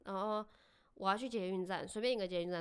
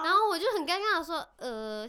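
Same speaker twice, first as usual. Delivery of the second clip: higher and louder, laughing through it; 9 semitones higher, 11 dB louder than usual. Real, not acted. Woman telling her co-host the story, laughing through it. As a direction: laugh while recounting the awkward moment. Laughing while retelling awkward moment.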